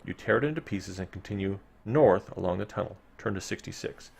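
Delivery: measured gamebook reading to the listeners; story narration. A narrator's reading. Host reading gamebook text to listeners, storyteller narration. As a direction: read the dungeon text like a storyteller. Reads gamebook passage aloud.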